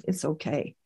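very soft, low reassurance; hushed and calming, barely above a murmur; quiet, comforting. Retold or imitated. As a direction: gently voice someone soothing with peace. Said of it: "quiet and sort of comforting me with peace".

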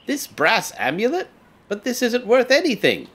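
pleading villager. Acted.

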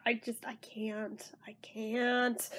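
defeated whisper. Real, not acted. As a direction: breathe it out, giving up. Overwhelmed by the bad cover.

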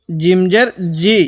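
hard j in "জিম" and "জি"; firm jim. Shown as a demonstration. Teacher drills the letter jim, firm j in "জিম জের জি". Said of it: "জিমটা উচ্চারণের সময় শক্ত করব".

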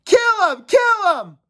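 high, loud bloodthirsty yell; frenzied shouting. Acted. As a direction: egg on the mob. Frenzied mob shouting at Robert.

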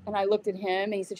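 ordinary talk

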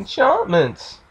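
high, drawn-out catchphrase mimicry; mimicking game merchant.

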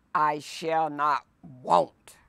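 slow breathy whisper, no voice. Shown as a demonstration. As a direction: whisper it slowly like a secret promise. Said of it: "read twice, second time whispered".

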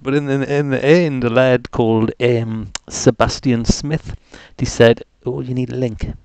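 put-on broad Geordie; Geordie accent. Host rambling to the stream about a broken warning, Geordie accent. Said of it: "allowed to talk, talk like this".

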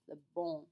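bon with the air through the nose, no hard n; nasal bon. Shown as a demonstration. Teacher demonstrating nasal vowel to students. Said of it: "makes that nasal sound".

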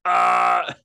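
high, loud shouted cartoon syllables; high loud yell of single syllables; shouted character syllables. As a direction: belt out the sounds so the neighbours hear. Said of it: "I'm upstairs going like".

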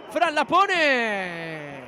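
slow, drawn-out play-by-play; drawn-out commentary. Acted. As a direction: stretch the call out slowly. Commentator drawing out the cross.

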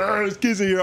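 mocking high, cracked-voice imitation; voice cracking. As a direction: mimic a timid man's cracking protest. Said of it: "your voice cracked".

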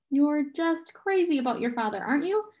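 soothing, lifted tone; gentle. A narrator's reading. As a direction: gently give permission to cry. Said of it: "Calvin asked gently".

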